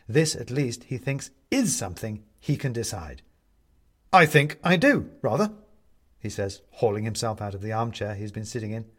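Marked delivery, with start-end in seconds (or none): 4.1-5.5 firm refusal. A narrator's reading. Benedict asserts himself.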